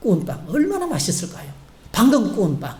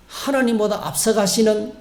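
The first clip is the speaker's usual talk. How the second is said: ordinary delivery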